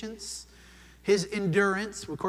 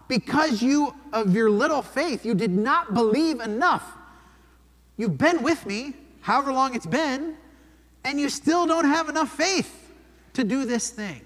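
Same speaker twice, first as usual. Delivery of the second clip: exasperated; 5 semitones higher than usual. Acted. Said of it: "Jesus' exasperation here".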